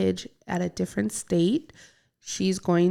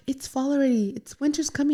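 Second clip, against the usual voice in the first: excited; 6 semitones higher, faster than usual. Retold or imitated. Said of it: "us to be like".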